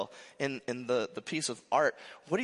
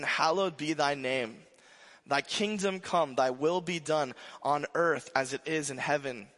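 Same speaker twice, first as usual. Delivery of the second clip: prayer recitation. Acted. Pastor leading the congregation in prayer, reverent recitation.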